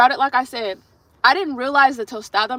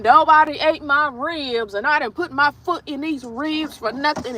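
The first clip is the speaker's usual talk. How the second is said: mock complaining; 4 semitones higher than usual.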